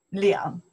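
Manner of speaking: 两 said as a separate model word; pronunciation of 两. Shown as a demonstration. Teacher contrasting readings of two, 两 demonstrated. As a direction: give 两 its own clear beat. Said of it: "the two have two pronoun".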